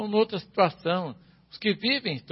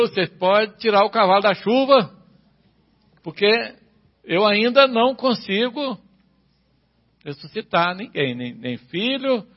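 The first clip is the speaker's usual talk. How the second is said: forceful preaching; 5 dB louder than usual. Acted.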